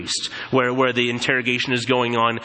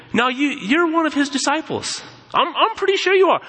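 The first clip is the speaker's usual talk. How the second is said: accusing shout; 12 semitones higher than usual. Retold or imitated. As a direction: press him hard, nearly shouting. Accusers pressing Peter by fire.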